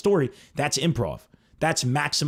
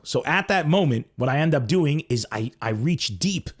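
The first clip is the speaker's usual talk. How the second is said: normal talking voice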